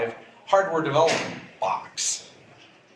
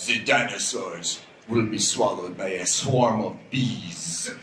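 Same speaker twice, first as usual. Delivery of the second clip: put-on slow, lower French-accented prophecy; 6 semitones lower, slower than usual. Colleague Jean-Pierre predicting mainframes' fall, in a French accent. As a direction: impersonate a Frenchman foretelling doom, slowly. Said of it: "in his, uh, French accent".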